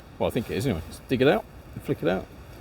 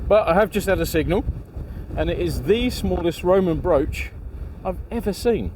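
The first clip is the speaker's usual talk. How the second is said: excited; 4 semitones higher than usual. Real, not acted. Excited find of tiny brooch.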